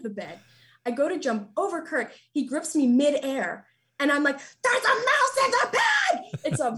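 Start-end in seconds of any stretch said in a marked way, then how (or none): 4.6-6.4 high, laughing panicked cry, slowed. Retold or imitated. Wife retelling yelling at Kurt about the mouse, panicked laughing cry. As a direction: shriek it while half laughing at yourself. Freaking out at husband.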